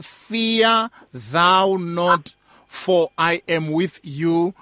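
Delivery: slow, measured recitation of the Lord's words; solemn scripture reading. Acted. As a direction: read it like a solemn promise from the pulpit.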